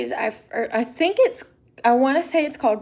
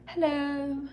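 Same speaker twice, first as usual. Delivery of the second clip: soft whispered hello; 5 semitones higher, 7 dB quieter than usual. Real, not acted. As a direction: whisper it under your breath. Answering someone quietly.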